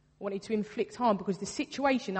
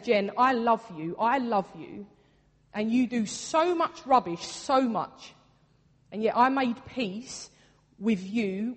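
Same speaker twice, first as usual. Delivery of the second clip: louder, emphatic voicing of Jesus; impassioned declaration; 4 dB louder than usual. Jesus telling Jen he loves her, impassioned. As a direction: press each declaration home with feeling.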